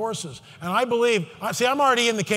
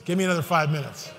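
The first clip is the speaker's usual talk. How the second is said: pleading shout; 5 semitones lower, 3 dB quieter, faster than usual. Real, not acted. Pleading for more time.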